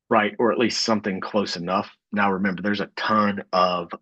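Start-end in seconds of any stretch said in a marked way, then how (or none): 2.9-3.9 speaking with the hiccups; words broken by hiccups. Real, not acted. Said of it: "I've got the hiccups".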